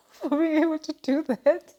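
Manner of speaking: high, loud laughing delight; real happy laugh in the voice. Real, not acted. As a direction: laugh through the words, pleased with yourself. Delighted with herself, laughing as she speaks.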